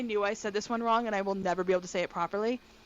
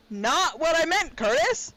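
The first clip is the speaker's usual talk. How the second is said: higher and louder, fed-up protest; frustrated protest; 5 semitones higher, 6 dB louder than usual. Real, not acted. To Curtis over the misunderstanding: frustrated protest. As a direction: throw it at him, annoyed.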